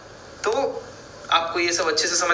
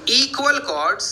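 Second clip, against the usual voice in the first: slow dictation; 7 semitones higher, much slower than usual. Shown as a demonstration. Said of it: "dictating the theorem".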